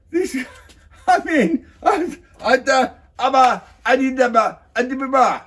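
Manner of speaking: high, breathless laughter through the words; can barely get the words out for laughing. Real, not acted. Cracking up at the meeting.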